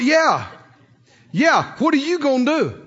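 sassy retort with a slight lift; sassy comeback. Retold or imitated. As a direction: throw the question back cheekily. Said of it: "then I got sassy".

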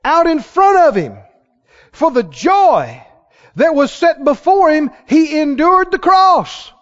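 fervent pulpit reading with questions thrown out; emphatic scripture preaching. Real, not acted. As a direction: punch the key words for the congregation. Preaches scripture with call and response.

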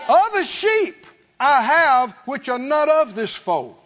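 joyful preacher's shout; shouting praise. Acted. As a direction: burst into hallelujah before the church.

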